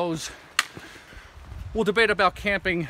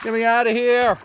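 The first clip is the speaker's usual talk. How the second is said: high, louder plea; louder, desperate to get out; drenched and cold; 7 semitones higher, 7 dB louder than usual. Real, not acted. Stuck in swamp.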